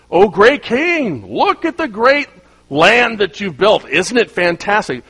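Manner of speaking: slow, high, gushing flattery; a kiss-up buttering up the king; fawning courtier. Retold or imitated. Courtier flattering the king, slow fawning gush. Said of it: "one of them pipes up like".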